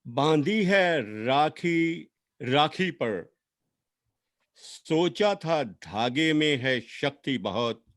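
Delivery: measured lament, lines rising and then falling away; poem recitation. Acted. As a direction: recite a sister's farewell with long pauses between phrases.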